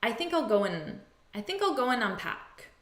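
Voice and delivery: AND cut down to just an n; natural spoken "go-'n unpack", AND swallowed; reduced AND. Shown as a demonstration. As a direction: link GO AND as "go-'n". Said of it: "We often reduce the word and".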